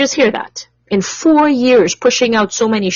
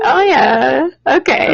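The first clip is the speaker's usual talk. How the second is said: slightly higher, playful sweet reply; 4 semitones higher, slower than usual. Shown as a demonstration. Host playing along with co-host, sweetly. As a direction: keep the sweet voice on, lightly.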